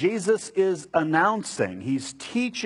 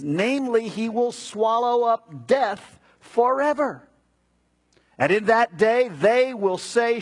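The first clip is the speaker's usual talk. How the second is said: emphatic pulpit proclamation, often raised in pitch; scripture reading; 5 semitones higher than usual. Acted. Preacher reading Isaiah's promise of salvation, emphatic scripture reading. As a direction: declaim it in measured, weighty phrases. Reads out Bible prophecy.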